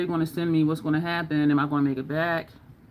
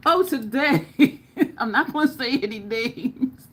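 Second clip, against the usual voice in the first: laughing; 6 semitones higher, slower than usual. Real, not acted. Laughing while teasing a story.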